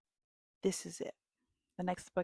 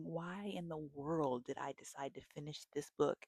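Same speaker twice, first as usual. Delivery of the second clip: mock panicked thoughts. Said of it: "I'm thinking".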